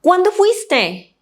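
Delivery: ¿Cuándo fuiste? with Cuándo lifted high; eager question. Shown as a demonstration. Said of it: "we only say".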